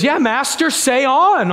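half-hearted haughty reply to the teacher; mock arrogance. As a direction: Simon answering Jesus with mild arrogance. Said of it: "Almost kind of arrogance there".

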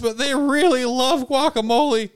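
high, jittery waiter voice; nervous waiter. Acted. Waiter answering the party's call, high and jumpy. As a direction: squeak it out like a nervous little waiter.

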